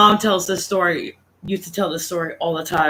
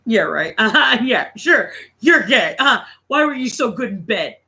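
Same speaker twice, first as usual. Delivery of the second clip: sarcastic, higher disbelieving mom; mock disbelief; 3 semitones higher than usual. Mom scoffs at the father's confession, sarcastic. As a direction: scoff like she doesn't buy it.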